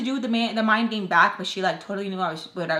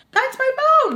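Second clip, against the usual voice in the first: high, loud outburst; shouted protest; 9 dB louder than usual. Retold or imitated. Narrator demanding her phone back, high shouted protest. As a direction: yell it high in indignant protest.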